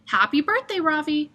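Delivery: bright high call from the bus. Acted. Bus driver calling to Ravi, high call. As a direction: call out happy birthday across the street.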